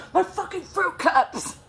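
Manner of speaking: high, loud, slow imitated complaint; exaggerated indignant yell, drawn out; mock outrage. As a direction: hammer it out as a hammed-up grievance. Ex's outraged answer, retold.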